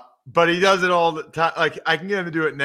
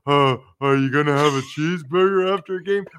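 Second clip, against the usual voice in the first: lower-pitched slobbery caricature of himself; mocking voice impression; 4 semitones lower, faster than usual. Host demonstrates how others mock his voice, lower slobbery caricature. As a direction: do the voice people use to make fun of you. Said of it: "It sounds like".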